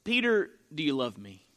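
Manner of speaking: low, gently measured question; lightly voiced, low solemn question; Jesus. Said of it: "And Jesus asks Peter".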